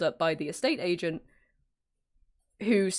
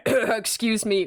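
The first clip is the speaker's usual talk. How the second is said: slow, half-choked cover for laughter; stifled laugh; 2 semitones higher, 4 dB louder, much slower than usual. Retold or imitated. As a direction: laugh disguised as a throat-clearing. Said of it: "trying not to laugh".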